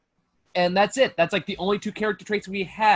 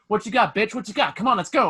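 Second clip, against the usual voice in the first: put-on tough little kid voice; 4 semitones higher than usual. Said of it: "chest bump, like, the adults".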